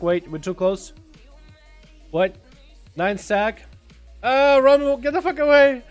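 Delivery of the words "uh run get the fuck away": panicked high yell. Real, not acted. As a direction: shout them away in a panic. Panicked yelling at another player.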